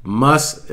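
"must" said alone with a rising tune; emphatic must. Shown as a demonstration. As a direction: lift the word "must" like a warning. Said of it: "I put the emphasis on must".

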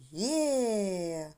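long, falling cheer on «є»; joyful exclamation. Shown as a demonstration. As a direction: cheer «є» with the children, held long. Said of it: "ви будете радіти і вигукувати". (протяжний радісний вигук «є»)

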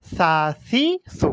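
"সা সি সু" with a gentle s from the tongue tip; careful model of soft "সা সি সু"; soft tongue-tip consonant. Shown as a demonstration. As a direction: say "সা সি সু" softly articulated at the tip of the tongue. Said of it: "জিহ্বার মাথার মধ্যে উচ্চারণ করতে হবে নরম করে".

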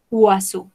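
Oiseau as waso; model word. Shown as a demonstration. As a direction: clear teacher model of Oiseau. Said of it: "se pronuncian como una O".

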